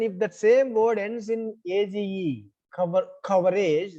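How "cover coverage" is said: "cover, coverage" both stressed on the first syllable; stress stays put. Shown as a demonstration. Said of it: "stress won't shift".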